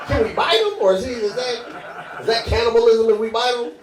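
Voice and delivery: hint of confused zombies conferring; puzzled zombies. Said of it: "Zombies gonna be poking me with a stick".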